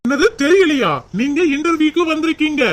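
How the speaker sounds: can't believe what was just said; astonished, exasperated reminder; incredulous. Acted. Incredulous that applicant forgot the interview.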